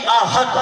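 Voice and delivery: احد with a plain ہ; light h in ahad. Shown as a demonstration. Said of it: "دو آنکھوں والی ہا". (ہ کے ساتھ احد)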